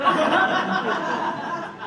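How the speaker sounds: loud, high burst of laughter; laughing. Real, not acted. Player cracking up at the permit joke, laughing.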